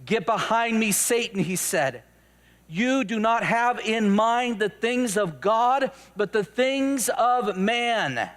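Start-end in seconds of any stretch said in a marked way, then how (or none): 0.0-1.4 firm, measured command; a touch of severity, each word set down; stern rebuke. Acted. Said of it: "he rebuked Peter". 2.7-8.3 slow, weighty reproof; solemn, emphatic correction; stern rebuke. Acted. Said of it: "he rebuked Peter".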